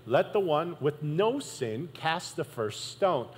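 slow, measured quote; slowly. Retold or imitated. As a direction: let each word land. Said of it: "The Bible says that slowly".

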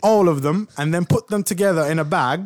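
playful mock British English; put-on British accent. Host jokes about mixing characters in a bag, British accent. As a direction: keep up the British accent as a bit. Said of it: "This is British accent".

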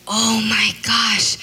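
slow, breathless whispered realization; hushed, slow dawning realization; stunned whisper. Retold or imitated. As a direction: whisper it slowly as it sinks in. Realizing she's been complaining.

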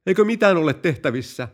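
a general in sudden terror; horrified. Acted. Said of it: "kenraali kauhistui". (kauhistunut, kovempi ja korkeampi kysymys)

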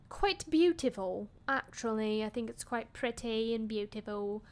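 half-hearted put-on British accent, lifted on quite beautiful; a light, wobbly British accent; terrible put-on accent. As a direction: drift into a cheesy British accent, badly. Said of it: "Sorry for that terrible accent".

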